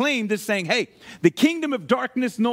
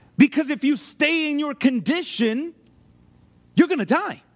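plain

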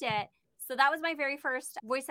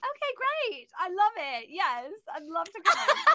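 put-on fake British accent, pitched higher; 6 semitones higher than usual. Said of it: "pretending to be British".

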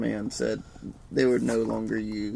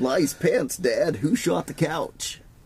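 pitched-up voice like a talking toy; 5 semitones higher than usual. Attempting the animatronic host of an old board game, Mr. Game Show voice. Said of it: "That sounds more like Barney".

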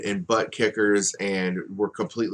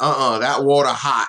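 put-on Delaware accent, pitched higher and said louder; 4 semitones higher, 6 dB louder than usual. Recounting your only interaction with Jay Briscoe, give the reply in Jay Briscoe's Delaware accent. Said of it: "in his Delaware accent".

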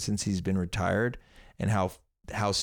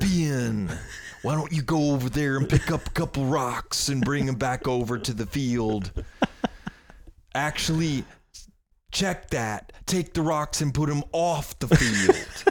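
higher put-on voice, every word carefully enunciated; 5 semitones higher than usual. Doing the voice of a man who enunciates very well, imitating him. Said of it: "I just did his voice".

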